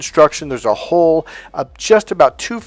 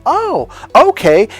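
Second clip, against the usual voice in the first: high, drawn-out dawning "oh"; sudden realization; 9 semitones higher, 6 dB louder, slower than usual. Acted. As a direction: imitate a woman suddenly getting it, slowly. Woman suddenly understands and accepts.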